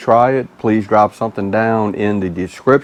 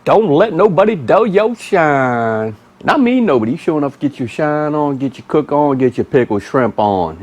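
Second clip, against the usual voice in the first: signature sign-off catchphrase; 6 semitones higher than usual. Acted. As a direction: belt out the sign-off, pitch way up. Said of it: "always gon' say it".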